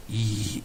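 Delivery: soft, drawn-out "이" of exertion; mock stabbing noise, held back; stabber's effort noise. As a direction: mimic the grunt of someone stabbing. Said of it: "찌르면서 뭐라고 그러나요?".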